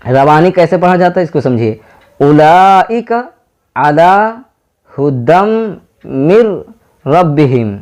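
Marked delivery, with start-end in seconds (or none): 2.2-7.8 slow, connected reading of the whole phrase; fluent recitation. Shown as a demonstration. Teacher reading the verse fluently for students, slow recitation. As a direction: read it through smoothly, word after word. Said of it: "अब एक बार पढ़ते हैं रवानी।".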